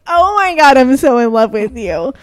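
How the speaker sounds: high, loud start on a retold swoon; retold gushing. Tourist charmed by old lady, mock gushing. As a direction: gush it like a smitten fan. Retelling own gushing infatuation.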